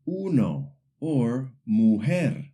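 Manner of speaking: uno and mujer with a clear oo sound for U; slow, Spanish uno and mujer, U fully sounded; pronounced U. Shown as a demonstration. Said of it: "we always pronounce the letter U".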